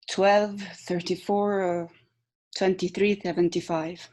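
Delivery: weary resignation on each number; resigned. Shown as a demonstration. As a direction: sound like you've given up. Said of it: "Resignation, exactly".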